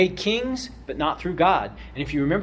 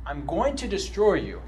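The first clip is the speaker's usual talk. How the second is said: fed up; 5 semitones higher than usual. Retold or imitated. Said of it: "you can hear him saying".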